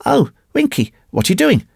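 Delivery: high-pitched, worried woman's voice; dismayed young lady. Acted. Injured woman questions the boy.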